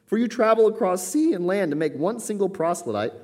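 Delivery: high-pitched, emphatic scripture denunciation; scathing rebuke. Acted. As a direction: press the accusation home. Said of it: "it is a scathing chapter of rebuke".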